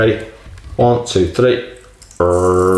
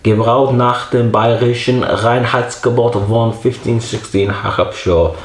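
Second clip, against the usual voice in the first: slow, careful reading in halting amateur German; German label read-out; slower than usual. Acted. Reviewer reading beer label for German speakers, slow halting read-out. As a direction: read it out slowly, word by word, in German.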